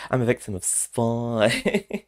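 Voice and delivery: slow, high, drawn-out character voice; Drusilla impression. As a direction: imitate mum's impression, stretching the last word high. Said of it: "her impression of, uh, Drusilla".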